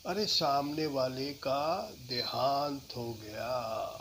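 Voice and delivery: slow, somber news; sad low tone. Shown as a demonstration. Teacher demoing a sad low tone. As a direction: break the sad news gently. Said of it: "low tone में बात कर सकते हैं".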